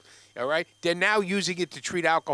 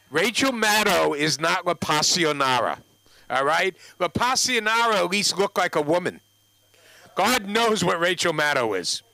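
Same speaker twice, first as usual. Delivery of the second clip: mocking rant; 5 dB louder than usual. Real, not acted. To the audience, scornful and loud. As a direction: hit it hard with scorn.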